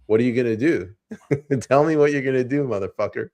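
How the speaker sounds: mocking tough-guy dare; taunting enforcer. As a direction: goad him with a cackle. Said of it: "they'll be like".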